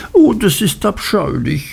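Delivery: mock horror, girlish; Dora's voice. A narrator's reading. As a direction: recoil like a spoiled girl. Dora's lines in story.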